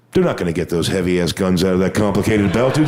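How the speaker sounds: normal talking voice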